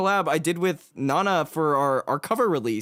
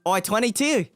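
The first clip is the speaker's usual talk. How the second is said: put-on playful Australian accent, laughing through it; 3 semitones higher than usual. Radioing his friend in a jokey Australian accent. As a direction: ask it like a joking Aussie cop. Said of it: "I've never done this accent before".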